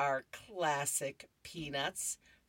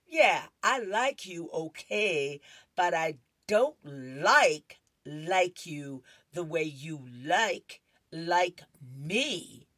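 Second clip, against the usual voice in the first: put-on boy letting her down; 6 dB louder, slower than usual. Boy explaining to classmate.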